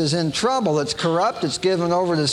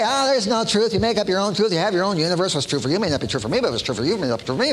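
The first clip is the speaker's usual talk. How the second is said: a hint of a dismissive voice, fast at the end; mock relativist; much faster than usual. Preacher mimicking relativists, lightly and fast. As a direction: toss off the relativist line. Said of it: "They're the ones that say".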